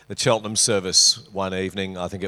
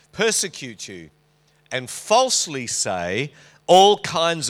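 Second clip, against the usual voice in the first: scripture reading; 2 semitones higher than usual. Acted. Preacher reading the Beatitudes to his congregation, measured scripture reading. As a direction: read the verse out with measured weight.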